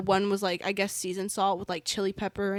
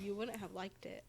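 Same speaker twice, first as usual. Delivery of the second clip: far from the microphone, faint; turned away from the mic; 14 dB quieter than usual. Real, not acted. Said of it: "you gotta talk to the mic".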